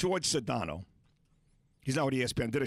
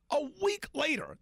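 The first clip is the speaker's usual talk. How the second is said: incredulous; 11 semitones higher than usual. Real, not acted. Repeating in disbelief.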